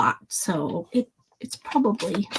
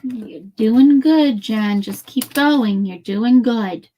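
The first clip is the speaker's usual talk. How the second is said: slow, gentle self-encouragement; pep talk. Real, not acted. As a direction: coax yourself along kindly. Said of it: "I'm giving myself a pep talk".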